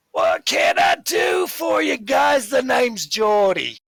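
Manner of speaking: high, loud, hearty greeting; jovial barkeep. Acted. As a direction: boom a big-smiled welcome to the newcomers. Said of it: "as you approach, he sees you coming, smiles big".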